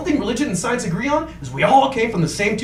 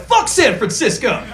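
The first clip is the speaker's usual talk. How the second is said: rival fan jeer; slower than usual. Acted. Acts sports fans' chant.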